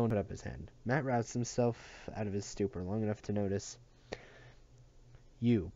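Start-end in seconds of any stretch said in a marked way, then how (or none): 5.4-5.7 barked. Acted. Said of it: "barked Jorge".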